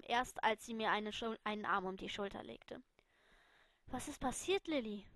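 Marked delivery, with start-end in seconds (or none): 3.9-5.1 softly calm question. Acted. Alice calmly asks the crying Lily. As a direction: ask gently and calm. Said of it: "fragte sie mit ruhiger Stimme".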